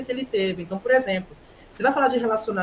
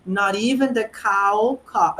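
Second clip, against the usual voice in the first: mock student translation; 3 dB louder, much slower than usual. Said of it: "o aluno vai lá".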